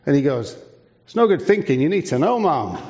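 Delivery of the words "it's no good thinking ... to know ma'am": high, emphatic start falling to "ma'am"; insistent correction. Retold or imitated. Joseph tells the royal visitor she must know, insistently. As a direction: imitate someone earnestly setting her straight.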